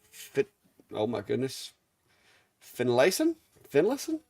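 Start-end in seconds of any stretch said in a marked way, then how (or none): 2.6-3.4 tentative questioning try at Finlayson; first careful guess at the name; unsure guess. Real, not acted. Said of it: "Something like that". 3.7-4.2 Finlayson asked again much higher, rising; second try, incredulous at his own guess; doubtful retry. Real, not acted. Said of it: "Something like that".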